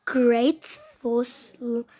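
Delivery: lightly put-on Australian accent; a hint of amateur Australian. Child vlogger showing slime glue to viewers, Australian accent. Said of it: "like, Australian accent for some reason".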